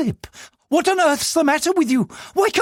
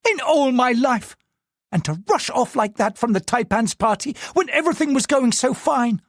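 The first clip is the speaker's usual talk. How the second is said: higher, fuming wife rants; seething; 10 semitones higher than usual. Acted. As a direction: vent her fury to herself. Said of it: "Diane found herself seething".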